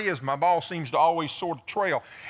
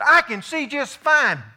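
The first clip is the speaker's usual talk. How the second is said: higher, slow, insistent; imitating Howard, slower; 7 semitones higher, 6 dB louder, slower than usual. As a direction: drag out the cocky reassurance. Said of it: "He said".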